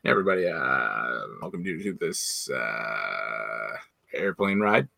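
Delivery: lightly voiced pilot over the intercom; a hint of a captain greeting passengers; airline pilot announcement. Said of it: "talk like a pilot on a commercial airline".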